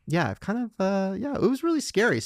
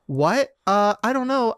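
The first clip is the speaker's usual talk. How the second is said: blurting it out, startled; half-laughed startled retelling; startled mock reply; 8 semitones higher, 5 dB louder, slower than usual. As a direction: caught off guard, higher and louder.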